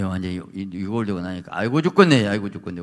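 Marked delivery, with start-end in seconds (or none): 1.6-2.3 a loud wailing 아이고 죽겠네 with 죽겠네 stressed; mock groaning Jacob. Jacob voiced groaning in pain. 2.3-2.8 아이고 stressed, dropping back to a normal level moan; fading groan. Acted. Repeat of Jacob's groan, softer.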